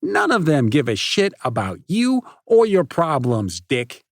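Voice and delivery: loud, high, fast taunting rant; bully mocking a hurt friend; cruel tirade. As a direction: tear him apart, enjoying it.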